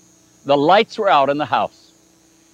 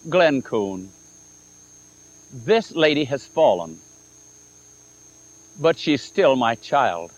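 tender voice of God. Retold or imitated. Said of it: "speak very kindly, very tenderly".

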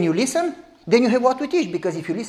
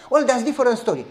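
mock elder, chuckling; imitating the elder through laughter; laughing elder; 5 semitones higher, 4 dB louder, faster than usual. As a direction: concede with a laugh. Elder admitting about wife.

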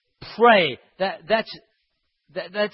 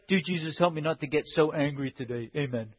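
low, soft token prayer; weak little prayer; 4 semitones lower, 7 dB quieter than usual. Acted. Preacher mimicking a petty everyday prayer, weak and quiet. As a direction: mumble a small, half-hearted prayer. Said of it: "Don't just pray".

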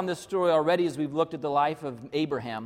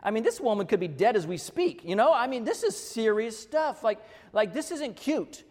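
irritated scolding; 6 semitones higher than usual. Retold or imitated. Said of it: "I was really sort of getting irritated".

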